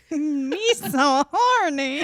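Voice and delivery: laughing. Acted.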